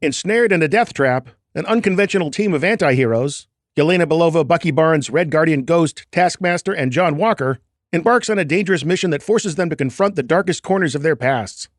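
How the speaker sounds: mock movie log line read; hammy trailer-style read, lightly done; ten cent log line voice. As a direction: read it like a cheap film pitch. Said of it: "my best ten cent log line voice".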